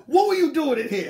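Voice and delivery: high, loud, accusing shout; retold shout. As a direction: bust him yelling. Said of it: "She runs out the bathroom like".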